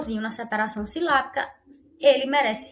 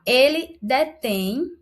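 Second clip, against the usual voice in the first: Ele detém slow and louder, on tém; stressed detém; 2 semitones higher, 5 dB louder, slower than usual. Shown as a demonstration. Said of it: "ele é acentuado". (Ele detém, devagar, com força no tém)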